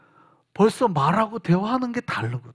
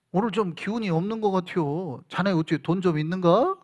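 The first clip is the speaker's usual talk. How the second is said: roundabout Chungcheong talk; 3 dB quieter than usual. Retold or imitated. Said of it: "말을 돌려가면서 합니다".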